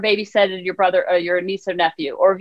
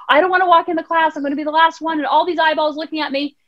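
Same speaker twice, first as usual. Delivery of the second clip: put-on child's whine; 5 semitones higher than usual. Son's anxious complaint voiced by mother.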